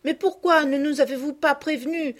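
put-on excited little girls. The cousins pepper the returned girls with questions, high and excited. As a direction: burst out with questions, overjoyed.

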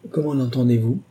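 innocent, guileless question; lightly acted ingenuousness; perfectly ingenuous. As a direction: ask as if you understand nothing. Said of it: "avec une ingénuité parfaite".

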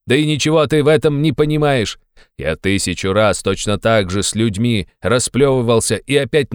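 high, loud insistent invitation; loud harangue. Acted. Razumikhin loudly insisting Raskolnikov come to his party.

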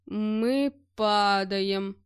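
slow, drawn-out groan. Acted. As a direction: moan it in despair. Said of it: "простонал я". (медленный стон)

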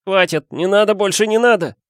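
high desperate scream; pained yell. Acted. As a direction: yell out begging in pain. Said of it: "Он заорал".

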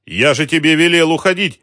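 high, loud angry shout; shouting at the boy. A narrator's reading. Shopkeeper yells at a boy who stayed, loud and high. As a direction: yell at him to get out. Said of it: "крикнул Ахмат".

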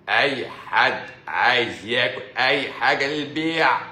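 slow, put-on preachy guru voice; mock guru. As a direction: drag it out like a self-help preacher. (صوت مدرب طاقة متصنع وبطيء)

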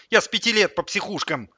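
high, loud plaintive howl; wailing. A narrator's reading. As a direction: keep wailing in self-pity. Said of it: "взвыл Сидор". (с воем, жалобно)

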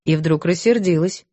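ordinary delivery

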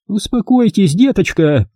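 cutting off. A narrator's reading. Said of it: "оборвала её мисс Рашби".

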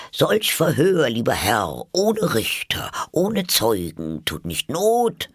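high-pitched, protesting little mouse; mouse pleading with dog. A narrator's reading. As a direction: protest in verse, high and measured. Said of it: "Sprach die Maus zum Köter". (hohe, protestierende Mäusestimme)

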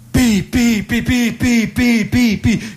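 high pi pi; second try at cooing. Acted. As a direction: coo up high to the baby. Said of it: "Ce la faccio". (nuovo tentativo di versetti acuti)

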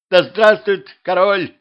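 high, loud, drawn-out squeal; squeaked chorus. A narrator's reading. Royal servants answer the king, squeaking in chorus. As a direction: squeak it like obedient courtiers. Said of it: "хором пискнула королевская челядь".

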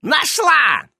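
high, loud cry of discovery; triumphant high exclamation; announcing. A narrator's reading. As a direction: shout out the find. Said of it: "известила его ведьма".

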